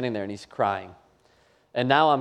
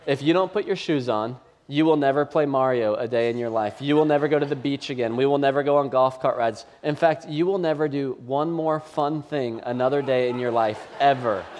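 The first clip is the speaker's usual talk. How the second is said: mock-furious laughing threats; lost temper. Dad loses it and threatens his son, half laughing. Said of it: "I kinda lose it".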